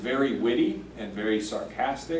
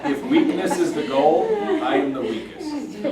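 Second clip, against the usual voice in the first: higher-pitched boast through laughter; amused mock boast; 11 semitones higher, 5 dB louder than usual. Teacher jokingly voicing Paul's sarcastic boast to the group, amused mock boast.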